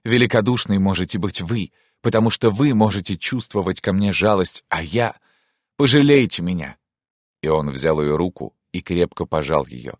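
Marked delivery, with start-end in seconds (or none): 0.0-6.8 mildly bitter plea; a touch of bitterness, turning to appeal. Acted. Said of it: "сказал он с горечью". (с лёгкой горечью)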